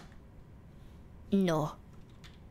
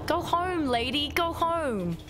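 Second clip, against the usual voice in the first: mock shooing; 5 semitones higher, slower than usual.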